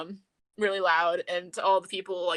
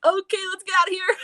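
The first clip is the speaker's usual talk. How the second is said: high, loud, rushed imitation; mock flustered hurry; 11 semitones higher, 7 dB louder, faster than usual. Imitating her hustling Hattori away, high flustered rush. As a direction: blurt it quickly as if fleeing embarrassment. Retold embarrassed escape from the question.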